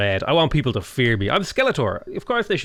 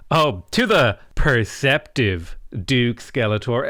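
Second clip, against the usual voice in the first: mock sarcastic reading; 2 semitones lower, slower than usual. Shown as a demonstration. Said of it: "I feel like that's somewhat sarcastic".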